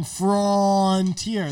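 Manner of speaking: "Frontier" stretched high as fronnn-teer; drawn-out N. Retold or imitated. Exaggerating how he says it, "Frontier" as fronnn-teer. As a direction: hold the middle of "Frontier" long. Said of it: "drawing out the N".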